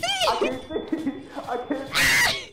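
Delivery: high mock panicked squeal; hammed-up scared friend; mocking imitation.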